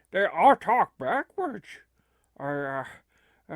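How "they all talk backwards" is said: loud, slow, disbelieving repeat; incredulous echo. Acted. Stunned listener repeats the backwards news, incredulous.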